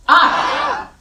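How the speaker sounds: very high, loud, alarmed Ah; panicked ah. Shown as a demonstration. Teacher demonstrating sympathetic arousal, high panicked ah. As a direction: shriek the Ah in fight or flight. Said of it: "If you were in a sympathetic gas".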